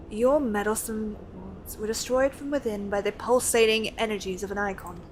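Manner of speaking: lightly voiced scholarly NPC, measured and earnest; reading NPC lines. Streamer reading a scholar's quest dialogue to chat, lightly voiced. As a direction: read it like a lightly acted learned scholar.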